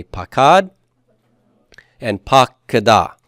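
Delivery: pakad lifted at the end, then pakada falling; measured pakad, pause, pakada; model for repetition. Shown as a demonstration. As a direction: say pakad and pakada for a class to repeat. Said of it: "say that with me".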